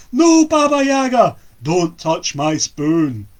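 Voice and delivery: loud, high burst; shout. Acted. Young lad bursting from the cupboard, shouting at Baba Yaga. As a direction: burst out yelling. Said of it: "he exploded out of the cupboard".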